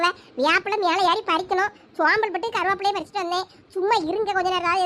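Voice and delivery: ordinary talk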